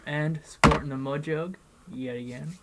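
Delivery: talking around a dip; chewing tobacco. Real, not acted. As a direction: lip packed with tobacco. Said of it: "let's pack a lip".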